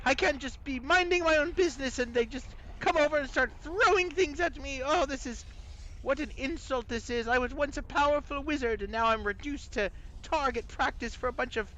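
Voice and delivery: very high, indignant British voice; British accent. Acted. Insulted wizard skull after the attack, high British accent. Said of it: "a British accent".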